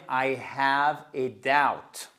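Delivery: slow, exaggerated French accent in English; caricatured French accent. Shown as a demonstration. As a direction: say it slowly with a thick French accent. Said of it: "mon accent français". (accent français caricatural, lentement)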